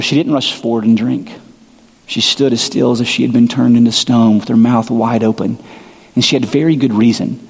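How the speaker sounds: put-on measured read-aloud of a children's book; reading Narnia to the congregation, a gently measured story voice. Reads Narnia passage aloud.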